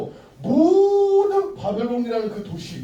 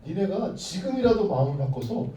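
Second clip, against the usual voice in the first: threatening king. Acted. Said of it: "그렇게 협박을 했어요".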